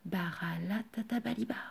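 soft whispered magic word; whispering. Acted. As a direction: whisper it gently like a secret spell. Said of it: "il chuchota doucement".

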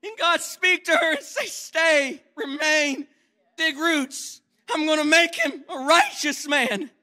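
high, loud pulpit preaching; preacher's full-force exhortation; fiery preaching. Acted. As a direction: preach it hard to the congregation.

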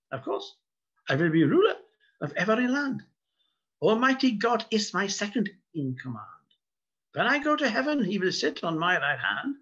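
pompous mock German accent, high and loud; boastful mock German accent; fake German accent. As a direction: crow it like a vain Kaiser in comic German. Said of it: "it has to be said with a fake German accent".

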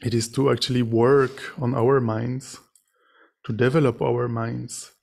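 measured meditation teaching with long pauses; guided meditation. Real, not acted. Meditation teacher leading sitters to reflect on suffering and compassion, guided meditation. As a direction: guide them gently, phrase by phrase, leaving silences.

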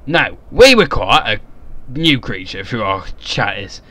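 put-on Cockney accent. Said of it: "Don't know why I did that in the Cockney".

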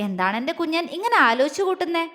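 lightly teasing, fond question; mischievous. Acted. Man teasing his brooding beloved, mildly mischievous. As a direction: needle her playfully. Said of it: "കുറുമ്പോടെ ചോദിച്ചു".

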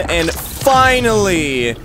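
long, drawn-out celebratory FINALLY; slow, swelling FINALLY. Real, not acted. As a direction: stretch FINALLY into a triumphant call. Repeats word as announced celebration.

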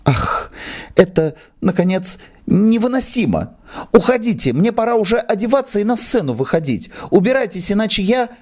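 high, rising outraged threat; furious actress. Acted. Actress orders the manager out in a fury.

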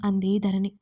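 ordinary delivery, nothing marked

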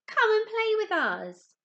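loud, high call to a friend; the fish call their friend over, loud and high. Acted. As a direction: shout him over to play. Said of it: "they called".

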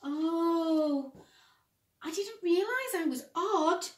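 wistful small sock voice; Simon the odd sock. Acted.

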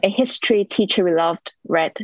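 measured poetry recitation with pauses between phrases; poem reading. Acted. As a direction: read each line as verse, letting it settle. Recites own autobiographical poem.

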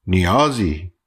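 نیازی with the vowels stretched long; drawn-out name. Acted. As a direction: say نیازی lingering on each sound. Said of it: "آنقدر کشیده نیاز را تلفظ کرد".

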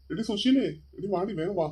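calling his wife from another room; mild call to hurry up. Acted. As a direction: hurry her up, calling across the house. Husband calls wife to come.

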